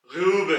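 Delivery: ग्यूब with a rounded, flattened ऊ; umlaut form. Shown as a demonstration. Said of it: "आवाज थोड़ी सी flat हो जाएगी". (ग्यूब में गोल होंठों वाली ऊ)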